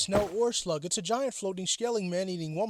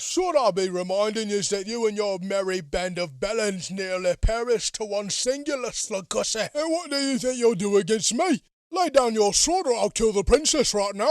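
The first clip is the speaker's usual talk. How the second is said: lightly voiced villain; 2 semitones higher, 4 dB louder than usual. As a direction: threaten them like a smug villain. Villain threatens the party.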